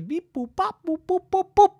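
high staccato beeps; mimicking the robot. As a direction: imitate robot bleeps in disbelief. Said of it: "I thought all you said was".

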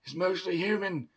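voodoo doctor. Retold or imitated. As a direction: warn her gravely like a dying shaman. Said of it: "the voodoo doctor, where he says".

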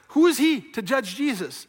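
forceful, high-pitched rhetorical question; indignant. Real, not acted. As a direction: challenge it with rising indignation. Preacher indignant at Pilate judging Jesus.

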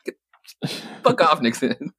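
high, scoffing mock retort; playful scoff at the president; mock brush-off. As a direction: tell him off with a laugh in it.

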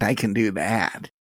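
lightly put-on Wisconsin vowels; Wisconsin accent. Shown as a demonstration. Podcaster showing off an accent, light Wisconsin twang. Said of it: "if you wanted in a Wisconsin accent".

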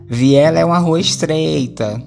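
lightly voiced aunt correcting grammar; tia corrigindo. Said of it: "Aí ela vinha e dizia". (imitação leve da tia corrigindo)

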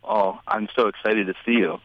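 understated, creepy deadpan excitement. Shown as a demonstration. Caller voices his text without the exclamation point, creepy. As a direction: say it evenly, with no exclamation, faintly creepy. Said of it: "sounds kind of creepy without".

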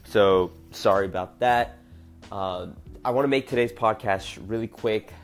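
congested, blocked nose; stuffy nose. Real, not acted. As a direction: talk through a stuffed-up nose. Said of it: "I'm all stuffed up".

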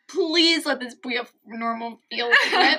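slow, laughing mock plea; imitating a cartoon girl. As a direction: plead in a slowed-down quote, amused. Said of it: "She goes".

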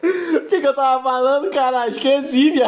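high laughing; laughing, lost track. Real, not acted. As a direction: laugh while losing the thread. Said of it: "cara, eu até me perdi".

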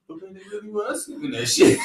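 mocking wife. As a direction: shout it like her panicked warning. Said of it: "I was like".

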